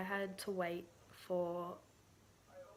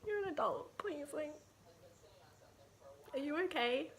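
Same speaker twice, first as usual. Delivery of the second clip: incredulous rant; 2 semitones higher than usual. Retold or imitated. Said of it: "I was like".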